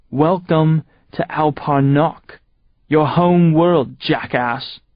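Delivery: slow, drawn-out mocking welcome; slow theatrical villain welcome; grand mock welcome. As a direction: savour the insult slowly.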